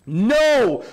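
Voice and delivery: loud, high no; emphatic no. Real, not acted. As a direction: burst out with the answer. Preacher answers his own question.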